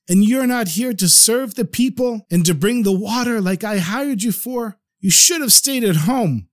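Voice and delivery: host scolding a drunken waiter, mock angry. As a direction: tell him off, storytelling anger. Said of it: "his voice got louder and louder".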